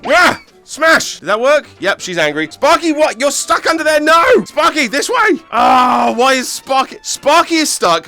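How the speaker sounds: frantic. Real, not acted. Frantic gameplay, Sparky stuck.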